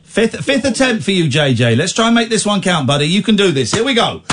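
high-pitched hype-up pep talk; rallying encouragement. Real, not acted. Host cheering on a repeat caller, rallying. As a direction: gee them up like a coach before a big attempt.

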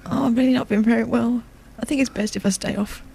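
faking being sick. Pretend. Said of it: "Okay, here it comes".

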